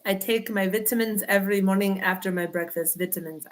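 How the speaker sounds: light fake Scottish lilt; mock Scottish. Shown as a demonstration. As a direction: play at a Scottish accent, half-hearted. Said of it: "I do not speak Scottish".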